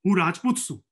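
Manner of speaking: light imitation of a Dungarpuri accent, proud claim; a hint of a Dungarpuri driver boasting. Driver assuring passengers about his caste, in a lightly imitated Dungarpuri accent. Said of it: "in this classic Dungarpuri accent".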